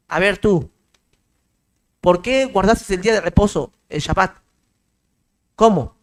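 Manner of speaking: lightly voiced sarcastic divine rebuke; hint of a stern judge scolding; mock stern judge. Preacher voices God condemning imitation.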